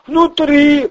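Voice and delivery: high, loud groaned word; the crook moans from pain; moaning Ryzhy. Acted. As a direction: moan it out in the crook's squeaky voice. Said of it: "простонал Рыжий".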